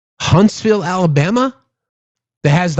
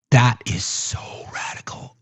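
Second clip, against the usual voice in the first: sarcastic hushed whisper; slow breathy mock-scandalized whisper; 4 semitones lower, 8 dB quieter than usual. Real, not acted. Mock shock at own words.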